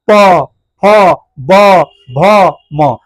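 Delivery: प, फ, ब, भ, म each drawn out from closed lips; bilabial sound demo. Shown as a demonstration. Teacher showing where lips meet, separate drawn-out प, फ, ब, भ, म. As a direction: press both lips together for प, फ, ब, भ, म, one by one. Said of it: "आपस में सटता है".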